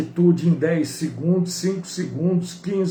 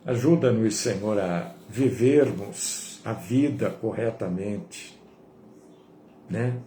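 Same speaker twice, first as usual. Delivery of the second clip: prayer; 7 semitones lower, 4 dB quieter than usual. Real, not acted. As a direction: lead the congregation in a hushed, unhurried prayer. Leads the closing prayer.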